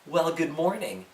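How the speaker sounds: slow, soft, drawn-out greeting; impressive greeting. Shown as a demonstration. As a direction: lean on "Well" as if to impress. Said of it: "you can really impress them by going".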